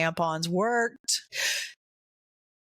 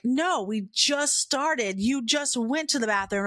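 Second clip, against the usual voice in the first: exasperated dad; 4 semitones higher than usual. Retold or imitated. Dad refusing his daughter another bathroom stop, mildly exasperated. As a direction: imitate a father's mild exasperation, leaning on "just".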